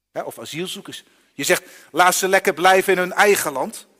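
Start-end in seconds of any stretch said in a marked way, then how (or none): 1.9-3.9 mock dismissive remark. Mocks a dismissive opinion.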